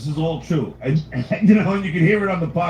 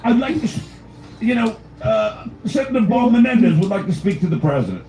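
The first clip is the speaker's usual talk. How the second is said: put-on English accent; 3 semitones higher than usual. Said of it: "that's the only accent I can barely do".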